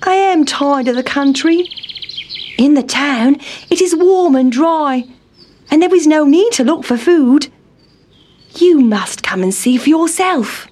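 high, fed-up mouse voice; Town Mouse character. A narrator's reading. Town Mouse inviting his cousin to town, high-voiced and persuasive. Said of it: "said Town Mouse".

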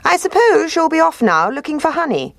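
high, smooth sly fox. Acted. Fox voiced in story.

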